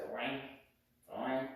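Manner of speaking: springy little boing; flexible boing. Shown as a demonstration. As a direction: make a bendy spring noise. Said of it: "Flexible is like this".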